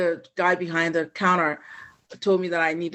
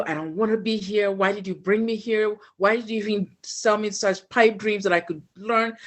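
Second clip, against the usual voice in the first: higher-pitched pleading, mildly distraught; retold upset outburst; 4 semitones higher than usual. Daughter reenacting her outburst at dad for bringing her here, upset. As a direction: reenact a frustrated, accusing plea without shouting.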